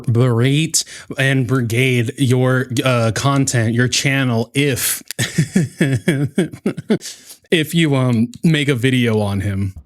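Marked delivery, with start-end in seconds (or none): 5.1-7.1 chuckle. Real, not acted. Commentator breaking up over a rival's claim, chuckling.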